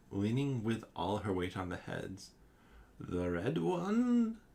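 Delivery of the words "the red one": higher, slow squeaky little question; frightened head squeaking under Mac's boot. A narrator's reading. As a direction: squeak it out, scared. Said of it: "squeaks the head".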